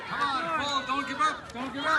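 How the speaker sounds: hoarse marathon cheering. Real, not acted. Coach cheering on pullers.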